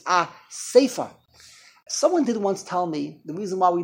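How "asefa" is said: "Asifa" said as a-SAY-fa; an ay sound in the middle of "Asifa"; correct pronunciation. Shown as a demonstration. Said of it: "The correct pronunciation is".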